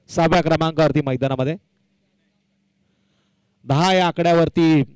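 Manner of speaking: ordinary talk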